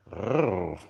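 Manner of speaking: low, soft throaty groan; short low grunt of pleasure; satisfied groan. Real, not acted. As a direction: groan quietly with relish. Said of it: "Sorry for the, the sound effects".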